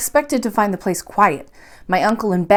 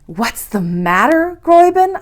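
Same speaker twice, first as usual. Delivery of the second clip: slow echo; 6 semitones higher, 3 dB louder than usual. A narrator's reading. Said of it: "I echoed".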